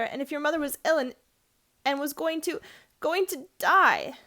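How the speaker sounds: put-on a miserable boy close to crying; holding back tears. A narrator's reading. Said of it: "trying to keep back your tears".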